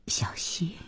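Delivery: very soft, tentative murmur; hushed and careful; cautious question. A narrator's reading. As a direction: ask carefully, under your breath. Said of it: "小心地问".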